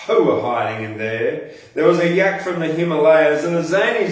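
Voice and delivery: playful rhythmic spoken-word recital; poem recital. Acted. Poet tells the audience about animals in his dreads, playful recital. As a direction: roll out the silly animal list with relish.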